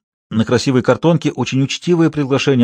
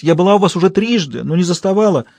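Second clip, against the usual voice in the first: dramatic actress; 6 semitones higher than usual. Acted. Actress Klara greets her husband with theatrical despair. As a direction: play it up like a stage heroine.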